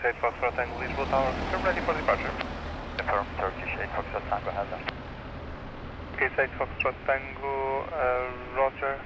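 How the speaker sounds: radio-filtered air traffic call; crackly cockpit radio voice; over a pilot headset. Real, not acted. Tower radio exchange with pilot.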